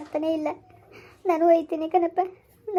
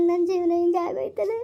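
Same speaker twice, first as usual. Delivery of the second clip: crying. Acted. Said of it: "ಅಳ್ಬೇಡಿ, ಯಾಕತ್ತೀರಿ?".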